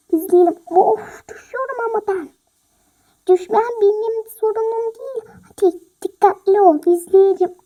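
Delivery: snapping loudly at friend; loud cramped squabble; loud bickering. Acted. Arguing in closet. (sıkışık dolapta yüksek sesle atışma)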